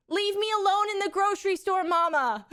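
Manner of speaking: high, loud imitation of a yelling toddler; full volume toddler yell. Mom imitating Louis in the grocery store, high full-volume yell. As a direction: holler it out like a toddler in public. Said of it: "full volume at the grocery store".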